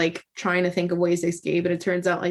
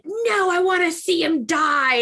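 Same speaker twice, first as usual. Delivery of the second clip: quoting the heroine; 10 semitones higher than usual. Retold or imitated. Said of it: "And she's like".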